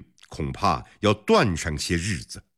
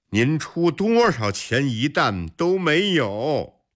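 dismissive; 7 semitones higher than usual. A narrator's reading. Shopkeeper refuses angry crowd.

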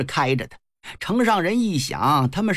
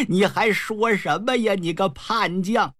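angry retort; 2 semitones higher than usual. Acted. Old general rejects the rebel officer's apology, angry. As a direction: cut off the apology and stretch out the insult. Tricked old man snaps at Huang.

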